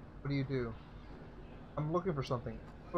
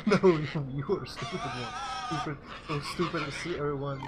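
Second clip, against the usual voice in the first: shouting gamorrean. Acted.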